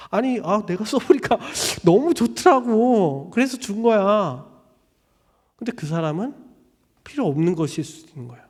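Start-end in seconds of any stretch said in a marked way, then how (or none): 0.1-4.5 laughing defense. Retold or imitated. Giver defends gift laughing.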